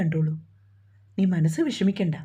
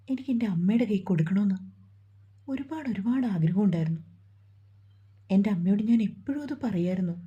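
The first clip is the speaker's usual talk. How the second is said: breaking into tears. Acted. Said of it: "അതും പറഞ്ഞവൾ പൊട്ടിക്കരഞ്ഞു".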